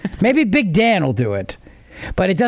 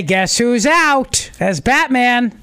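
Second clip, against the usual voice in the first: raised pitch, drawn-out triumphant delivery; gleeful announcement; 3 semitones higher, much slower than usual. Real, not acted. Host celebrates Batman actor's firing to co-hosts, triumphant. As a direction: announce it like the best news ever.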